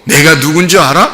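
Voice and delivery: high, hammed-up boasting; mock self-important swagger, throwing his weight around; swaggering show-off. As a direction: brag like a puffed-up disciple. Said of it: "엄청나게 자기 힘 좀 과시한 거죠".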